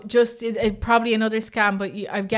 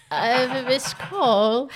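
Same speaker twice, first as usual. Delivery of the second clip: laughing; 4 semitones higher, much slower than usual. Real, not acted. Laughing through the role-play call.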